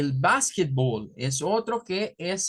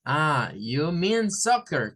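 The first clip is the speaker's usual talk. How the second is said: American reply; much slower than usual. Pretend. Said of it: "le va a decir".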